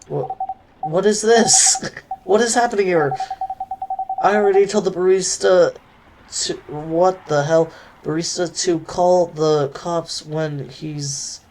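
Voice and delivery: high, loud alarmed outburst with a nervous laugh; panicked shouting. Acted. Aqua arrives late and panics at the scene, shouting in alarm. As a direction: yell in startled panic at the strange sight. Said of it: "Miss Aqua, please relax".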